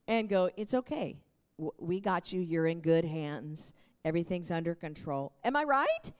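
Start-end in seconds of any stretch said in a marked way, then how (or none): 0.6-5.3 calm paramedic. Pretend. Pastor voicing a calm paramedic reassuring a bleeding patient. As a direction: settle the patient down gently. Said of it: "paramedic that's gonna stay calm".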